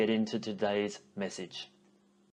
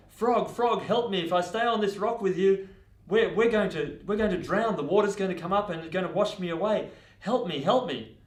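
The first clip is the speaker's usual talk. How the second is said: higher, louder panicked plea for help; urgent pleading; 7 semitones higher, 5 dB louder than usual. Acted. Scorpion begging the frog for rescue from rising water, urgent high plea. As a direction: beg in alarm, voice raised.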